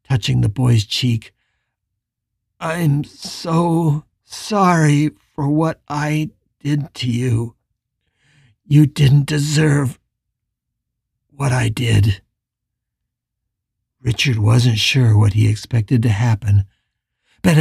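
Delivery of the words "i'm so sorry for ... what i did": slow, mild remorse; halting apology. Acted. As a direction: drag out each word of regret.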